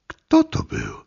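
a very high-voiced bewildered question; shocked woman asking. Nicole after the attack, high bewildered question. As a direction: ask it still shaken.

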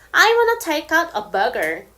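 I wanna take out a burger, spoken very slowly; careful teacher example; slow demo; slow American. Shown as a demonstration. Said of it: "이렇게 쓸 수 있고".

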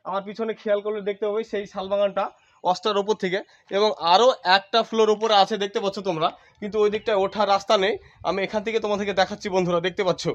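out of breath after climbing; panting lightly between phrases; heavy breathing. Real, not acted. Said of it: "আমি একটু হাঁপিয়ে গেছি". (হাঁপাতে হাঁপাতে বলা)

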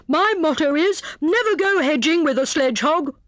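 high, pompous hare with a slip; severe, muddled motto. A narrator's reading. Hare lectures hedgehog and muddles it, severe. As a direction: swap the starts of "hedging" and "sledgehog". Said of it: "said he severely".

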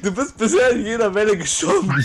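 words pushed out through laughter; laughing. Real, not acted. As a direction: tease him while laughing. Teasing teammate about dying. (lachend gesprochen)

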